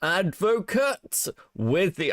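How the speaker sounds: accidental weird delivery; odd slow reading. Real, not acted. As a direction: stretch the name out oddly. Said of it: "I don't know why I said it like that".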